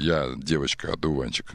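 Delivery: low bass voice, lightly done; deep voice. Shown as a demonstration. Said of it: "Басом скажи так".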